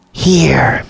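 thin papery spirit voice; dry papery voice from the wall. A narrator's reading. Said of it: "the voice said again".

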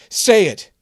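high, loud barked order; fierce command. Acted. Maria shouting at Kevin to make his wish.

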